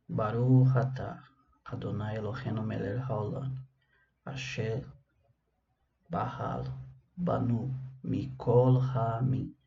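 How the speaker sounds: measured liturgical recitation; solemn Hebrew prayer with drawn-out words; Hebrew blessing. Real, not acted. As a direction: recite the blessing phrase by phrase, with pauses. Recites Hebrew blessing before reading.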